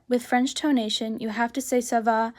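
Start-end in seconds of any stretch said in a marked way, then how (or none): 1.8-2.3 bored and dull. Shown as a demonstration. Teacher demonstrating a bored ça va. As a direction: say it like you couldn't care less. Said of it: "like you're kind of bored".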